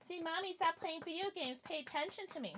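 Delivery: voicing the cat. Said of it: "just yelling at mommy".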